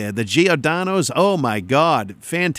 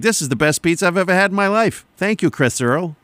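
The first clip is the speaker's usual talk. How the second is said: higher, quicker gushing imitation; imitated excitement; 5 semitones higher than usual. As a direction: gush like a delighted pizza convert. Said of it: "They were all excited".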